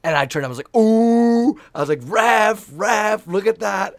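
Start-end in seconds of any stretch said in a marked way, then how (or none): 0.8-1.6 high, loud taunting ooh at the opponent; mocking ooh. Teammate taunting the opposing player with a loud mocking ooh. 2.0-4.0 high, loud, cheeky call to the ref; cheekily bait the referee, loud and high; mock appeal to the ref. Player needling the ref about a rival, loud and cheeky. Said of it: "I'm just a little shit on the court".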